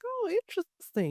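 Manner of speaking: high, soft, drawn-out "oh"; soft, lifted mock intrigue; imitating intrigued reaction. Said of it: "they're just like".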